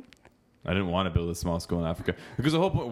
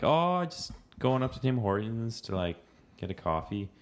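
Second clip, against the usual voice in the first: put-on Valley accent; 4 semitones higher than usual. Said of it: "Even Valley, they're like".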